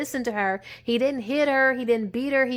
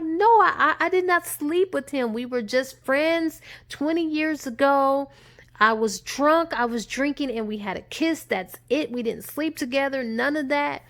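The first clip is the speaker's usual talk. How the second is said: higher, pleading denial with a stammer; panicked denial; 4 semitones higher than usual. Retold or imitated. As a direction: deny it in a rush, caught out. Wife denies cheating, upset.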